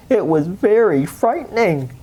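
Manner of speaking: a touch of mock fright; spooky storyteller. A narrator's reading. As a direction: make it sound scary for the kids. Narrator plays up fear.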